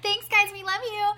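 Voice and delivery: squeaky high sing-song thanks; high cutesy voice. Pretend. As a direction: chirp it up high and sweet. Jokey thanks to listeners.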